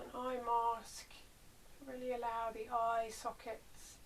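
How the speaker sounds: unhurried body-scan guidance with long pauses; guided meditation. Real, not acted. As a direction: ease them into rest, leaving space between phrases.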